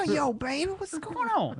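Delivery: very high, put-on smooth-talker voice; Earl of Sandwich. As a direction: greet her in a silly high falsetto. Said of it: "He talks like that".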